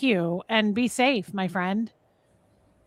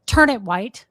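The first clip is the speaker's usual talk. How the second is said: auditor command; 6 dB louder than usual. Retold or imitated. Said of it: "full tone forty command".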